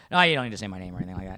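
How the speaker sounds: low, rushed brush-off; quick, low-pitched protest, mimicking a friend; touchy friend. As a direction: imitate a touchy friend waving off thanks quickly. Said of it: "he gets all touchy about".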